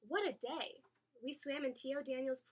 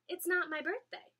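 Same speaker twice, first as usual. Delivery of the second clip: surprised; 8 semitones higher, 8 dB louder than usual. A narrator's reading. Stunned child protests.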